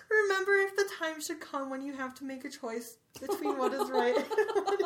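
reading aloud while breaking down; crying while reading. Real, not acted. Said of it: "I'm not gonna cry".

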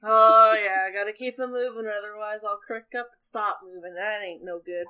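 put-on hearty old farmhand offering to help; lightly voiced friendly old man; Wilfred's voice. Wilfred's voice again.

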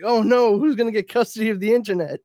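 high-pitched, hurried fake worry; mock alarm. Hearing of the Gores' divorce, high mock alarm. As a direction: fret in exaggerated dismay.

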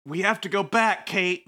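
Lost parody. Pretend. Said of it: "that was a Lost thing".

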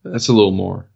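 put-on practising a Kentucky accent; mock Kentucky accent. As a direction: parrot it back in a light Southern accent. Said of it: "that's getting there".

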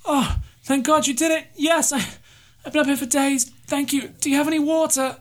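high, relieved voice of a parched survivor; stranded pilot. Acted. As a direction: play the stranded pilot high, grateful and desperate.

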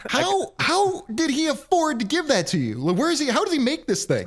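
nosy buddy voice. Acted.

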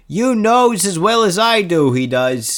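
put-on Polish accent. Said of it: "Your Polish accent is really good".

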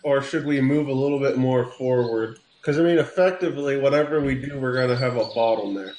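General Patton voice, pipe between teeth; pipe in mouth. Pretend. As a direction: talk around a pipe stem. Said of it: "I'm gonna take that pipe out of my mouth".

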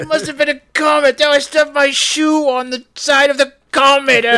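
mock stuffy British gentleman. Mock posh bit continuing.

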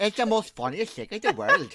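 laughing British attempt that comes out Irish; accidental Irish accent. Retrying a friend's accent trick, British accent turned Irish. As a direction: try for lisping British, veer into Irish. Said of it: "You went Irish accent".

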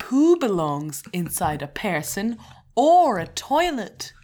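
slow, clear teacher-style dictation; slow and deliberate. Shown as a demonstration. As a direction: say it slowly like a teacher. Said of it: "repeat after me".

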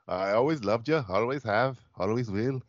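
rough attempt at a Scottish accent. Shown as a demonstration. Co-host asked to do a Scottish Franco Nero, attempting Scottish accent. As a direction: try a Scottish accent, lightly. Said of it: "Scottish accent".

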